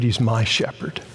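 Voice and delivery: tender weight on "my"; stress on MY. Shown as a demonstration. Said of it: "not a shepherd or the shepherd".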